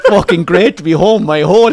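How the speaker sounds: mock exasperated outburst through laughter; bitter sarcasm. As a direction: throw it out scornfully, half laughing. Retells bitter outburst after being snubbed.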